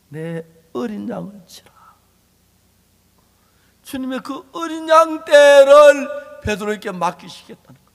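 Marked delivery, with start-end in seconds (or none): 0.1-1.7 breathy whisper, voiced as Jesus; tender whispered charge; whispered command. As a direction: hush it down to a gentle whisper. Jesus speaking to Peter.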